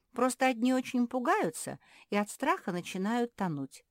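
громко и высоко зовёт подругу, ау; кричит в пустой коридор, ищет собаку; зовёт Горти. Acted. Мафи зовёт пропавшую Горти. (Мафи громко зовёт пропавшую Горти)

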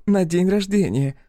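"На день рождения" said pointedly, with a rising end; pointed repeat. Acted. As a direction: stretch "На день рождения" slowly to underline the insult. Pointed repeat, then meaningful look.

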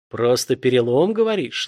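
menacing villain sneer, rising; a hint of a sinister hiss; ominous hiss. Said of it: "зловеще прошипел убийца".

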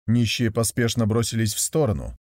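plain reading voice

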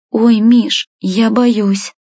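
put-on high-pitched timid girl; scared, pleading little voice; frightened. A narrator's reading. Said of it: "испуганно произнесла Машка".

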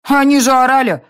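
put-on high, loud matter-of-fact kid; little girl stating the obvious; reasoning child. A narrator's reading. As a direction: explain it as if obvious. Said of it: "рассудительно объяснила Ирма".

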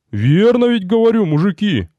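calling to the men. Acted. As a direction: rouse the crowd. Рикар зовёт воинов.

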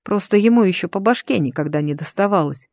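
ordinary delivery

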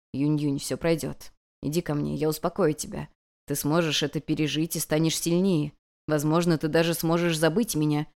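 put-on calm her like a frightened child; an ancient god softly consoling his student; soothing.

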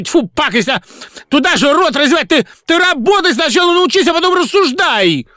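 shrill high furious tirade; hysterical screaming. A narrator's reading. Singer screaming abuse at his director, furious. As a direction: rant at her at the top of your voice. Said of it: "Никас кричал".

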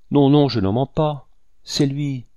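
high, strained denial; choked voice. A narrator's reading. Accused woman denies lying to the hunter, choked. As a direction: protest in a strangled voice. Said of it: "dit-elle d'une voix étranglée".

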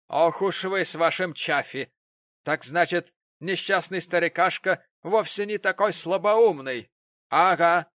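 loud gloating accusation. Acted. Prig triumphs over Gamp.

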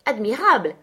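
mock praise, called out a little brighter; exclaiming. A narrator's reading. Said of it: "m'écriai-je".

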